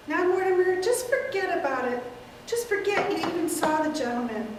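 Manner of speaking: put-on calm him like a child; elderly aunt. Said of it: "take several characters".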